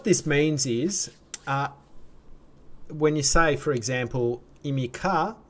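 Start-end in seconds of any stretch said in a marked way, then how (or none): 4.6-5.4 imika with the pitch going up at the end; rising question tune. Shown as a demonstration. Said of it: "it raises".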